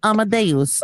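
lightly attempted pop-star impression; a hint of a put-on celebrity pronunciation; a pop star. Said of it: "as a pop star would say it".

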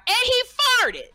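high shouted interruption; hammed-up yell of a heckler; heckler's scream. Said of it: "the man screamed out".

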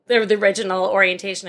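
ordinary delivery

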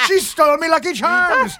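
mock Irish brogue, lightly done; hammed-up DiCaprio Irish accent; bad Irish accent. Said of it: "when Leonardo DiCaprio does an accent".

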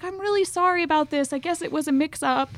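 high, imitated consoling apology; retold comforting. Cop consoling a crying tourist, retold comforting. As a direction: lightly act out someone soothing and apologetic. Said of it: "he's comforting me".

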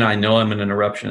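quick, unstressed "I" into a firm "know"; light I, stressed KNOW. Shown as a demonstration. Coach showing where the opener is light, "I" unstressed. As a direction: skip lightly over "I", land on "know". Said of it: "is light".

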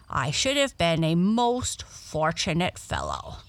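a touch of regretful complaint in a frog character; lamenting frog. Acted. Frog laments salty pond.

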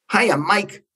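exuberant phone greeting, starting high; Stan Lee. Retold or imitated. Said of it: "this exuberant male voice".

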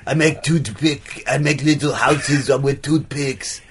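put-on artist with a muddled European accent; lightly put-on French-Austrian accent; earnest artist in a vague European accent; affected accent. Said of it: "What is that accent?".

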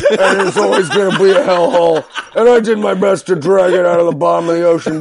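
playing Christie's brash debate answer, laughing through it; Chris Christie impression. Comic mocks Christie's debate answer in a lightly voiced brash tone. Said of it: "And his answer was".

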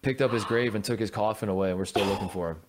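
retelling a guide's casual, even delivery; matter-of-fact. Retold or imitated. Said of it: "he said it so matter of fact".

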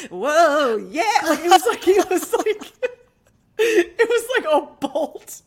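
laughing high. Retold or imitated. Imitating a hymn trend reaction, laughing.

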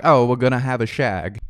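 light imitation British accent; mock British accent. Host imitating the British girl's slang, mock British accent. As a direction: put on a playful British accent. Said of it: "they say shag instead of f".

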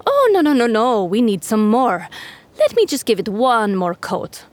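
won't take no for an answer; insistent camel voice. Acted. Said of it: "shaking her head".

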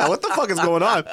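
put-on lightly done Australian accent. Cohost recalling slipping into Australian accent, light Australian accent. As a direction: toss it off in a hint of Australian accent. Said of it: "went straight to Australian accent".

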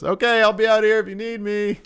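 mock-chipper therapist through the door; sweet therapist voice.

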